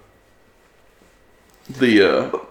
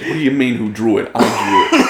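put-on New York accent; 3 dB louder than usual. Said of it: "full-on New York accent".

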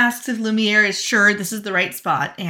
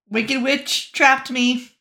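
shrugging confession; 3 semitones higher, much slower than usual. Retold or imitated. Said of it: "he doesn't even try".

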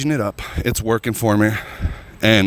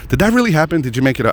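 higher-pitched imitation of incredulous friends; imitated disbelief; 6 semitones higher, faster than usual. Friends question if the story is true, imitated disbelief. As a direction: lightly mimic a doubting question, pitched up.

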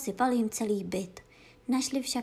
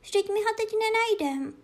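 high, frightened little cat calling out; startled kitten crying for its lost home; 11 semitones higher, 4 dB louder than usual. Acted. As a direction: gasp out the question like a scared kitten. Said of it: "lekla se kočička".

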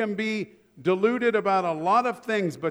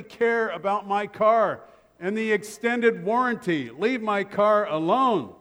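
1 exasperated; 4 semitones higher, 4 dB louder than usual. Real, not acted. Exasperated at warranty calls.

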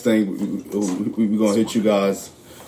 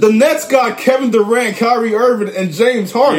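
higher, louder, listing each star proudly; fired up; 9 semitones higher, 3 dB louder than usual. Real, not acted. Nets fan arguing with a Lakers fan, fired up. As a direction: build the case name by name.

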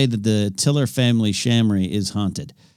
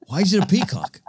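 mock bewildered; 8 semitones higher than usual. Mock bewildered after laughing.

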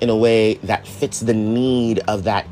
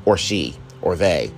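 real drop into a lower voice; voice suddenly changed; 5 semitones lower than usual. Real, not acted. Speaker adding pronouns as an aside, voice suddenly dropped. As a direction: let the voice slip lower unplanned. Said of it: "my voice just changed just now".

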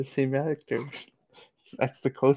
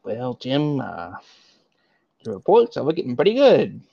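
Michael Scott impression; 4 dB louder than usual. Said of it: "Do a Michael impression".

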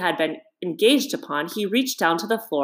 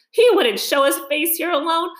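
laughing heartily; 10 semitones higher than usual. A narrator's reading. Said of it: "laughing heartily".

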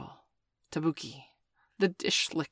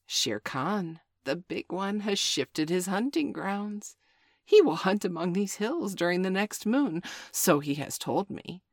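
sly jackal, relishing the bad news; spiteful; 3 semitones higher, 3 dB louder than usual. Jackal taunts the wolves about Shere Khan, spiteful. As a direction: needle them with the news. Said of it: "said spitefully".

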